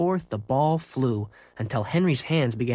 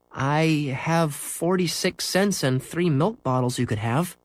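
hopeful offer; 4 semitones higher than usual. Acted. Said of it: "said Henry hopefully".

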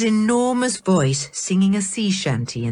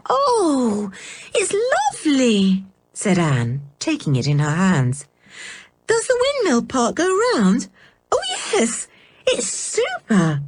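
put-on much higher, thrilled little girl's voice; delighted Anne; 7 semitones higher than usual. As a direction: gasp with delight over a new toy. Anne admires the windmill.

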